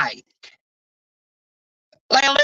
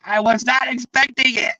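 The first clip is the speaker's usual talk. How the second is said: retold shout; 3 semitones higher than usual. Stunned panelist after an unexpected reply, shouting in surprise. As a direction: burst out the words in a shout. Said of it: "And he was like".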